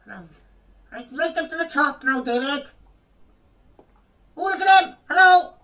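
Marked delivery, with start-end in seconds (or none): 4.4-5.5 excited mocking call. Real, not acted. Mocking a game character.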